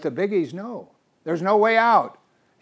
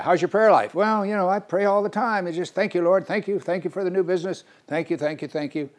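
higher, breezy rattled-off thanks; casual offhand; 6 semitones higher than usual. Pretend. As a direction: toss off a quick careless prayer. Acted dialogue, hurried thankful prayer.

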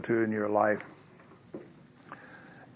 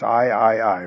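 self-righteous; 4 dB louder than usual. Acted. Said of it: "He's so self-righteous".

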